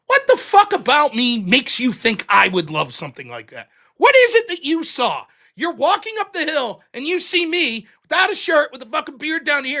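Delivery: loud, incredulous retold rant; indignant rant. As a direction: demand an answer, acting offended.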